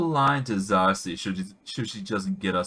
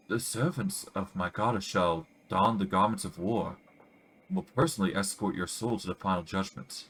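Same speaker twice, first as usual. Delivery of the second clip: a hint of a throaty, accented priestess warning; solemn messenger, only lightly put on; lightly voiced priestess; 2 semitones lower, 4 dB quieter than usual. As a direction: priestess with a faint strange accent. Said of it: "Her voice is throaty and hoarse".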